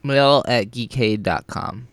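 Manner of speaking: slow, talking around an ice cube; mouth full. Real, not acted. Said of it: "slowly slowed your way into that one".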